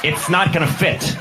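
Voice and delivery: lightly voiced firm attendant; restrained, matter-of-fact correction; understated flight attendant. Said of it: "No, he just said".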